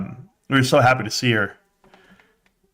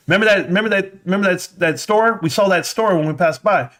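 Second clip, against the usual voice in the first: put-on excited kid; 8 semitones higher than usual. Kids explaining memory.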